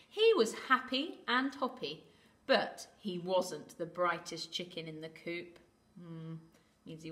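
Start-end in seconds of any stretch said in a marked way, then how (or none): 0.1-5.6 put-on lively storytelling for children; story narration. A narrator's reading. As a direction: read to little ones with lifted key words.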